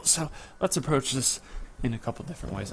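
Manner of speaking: straining while stretching; grunting through a stretch; effort grunt. Real, not acted. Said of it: "I'm sorry if I'm grunting into the microphone".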